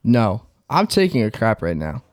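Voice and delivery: slow, groaning through cramps; stomach cramps. Retold or imitated. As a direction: read it like your gut is cramping. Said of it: "So, quote, quote from Mans".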